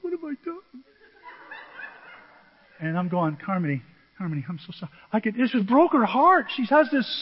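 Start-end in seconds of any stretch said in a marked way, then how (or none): 0.0-0.6 put-on tiny, high, soft child voice; hurt little child. Hurt granddaughter's reply acted out. 3.5-4.9 gentle, hushed grandpa apology; soft apology. Retold or imitated. Grandpa soothing the hurt child.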